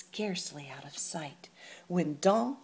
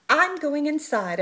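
fuming; 9 semitones higher, 10 dB louder than usual. Acted. Fuming Martina to abuela.

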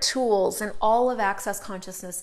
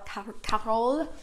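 slow, halting mock French accent; terrible French accent; much slower than usual. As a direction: try the name in a bad French accent. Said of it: "That's my terrible French accent".

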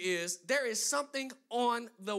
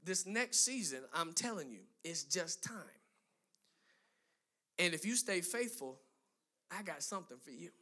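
hushed voice of God; 4 semitones lower, 5 dB quieter than usual. Retold or imitated. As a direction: pass on God's quiet promise, dropping almost to a murmur. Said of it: "And he said".

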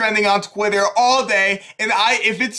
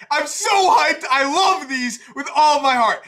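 excited; 6 semitones higher than usual. Real, not acted. Hyped reaction after reveal.

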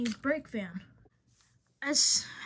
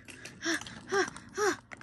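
sigh; 5 semitones higher, 3 dB quieter than usual. Acted. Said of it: "Afton sighed".

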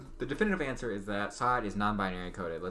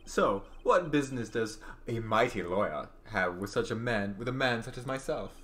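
arrogant villain. Acted. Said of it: "This guy's arrogance meter's off the scale".

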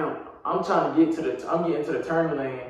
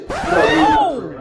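joking; 6 dB louder than usual. Retold or imitated. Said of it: "I'm capping".

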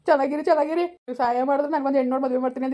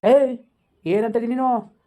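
a loud sharp "ಏಯ್" then a hot question; angry yell; 2 semitones higher, 4 dB louder, much slower than usual. Acted. Husband snaps at wife for calling him a dog, loud angry shout. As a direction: bark at her, offended.

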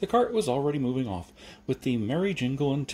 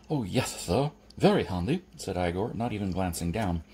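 proud Igor. Acted. Igor on thumbs, agency.

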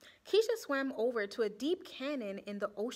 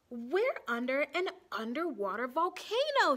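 mild shout; 3 dB louder than usual. Acted. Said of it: "she shouted".

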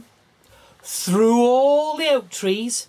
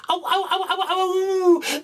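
wolf howls; 11 semitones higher than usual. Acted. Hungry wolves drawing nearer, howling. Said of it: "getting nearer and louder".

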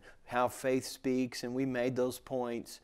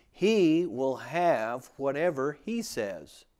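"he" stretched out and louder, slow delivery; stress on HE; 3 dB louder, slower than usual. Shown as a demonstration. Preacher reading the verse to listeners, stress on "he". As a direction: lean long and hard on "he". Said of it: "put the emphasis on he".

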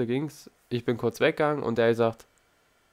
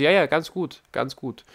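mock praise, a bit higher and louder; praising instructor; 4 semitones higher, 4 dB louder than usual. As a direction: imitate the instructor's breezy praise. Fahrlehrer lobt nachgemacht. (nachgeäffter Fahrlehrer, lobt lässig)

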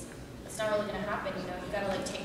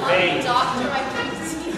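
put-on British accent; 4 semitones higher, 11 dB louder than usual. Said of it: "okay, British?".

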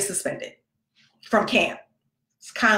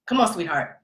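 put-on soft, lower sweet coaxing to a child; forced sweetness; 3 semitones lower, 3 dB quieter than usual. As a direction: coax a kid you'd rather yell at. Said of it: "he's somebody else's child".

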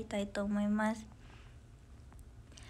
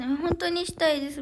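higher, louder, heartfelt burst; eager emphasis; 6 semitones higher, 9 dB louder than usual. Real, not acted. Idol telling fans she really wants a meet-and-greet, eagerly. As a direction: say it with real eagerness, lifted and loud. Eager reply to fans' wish.

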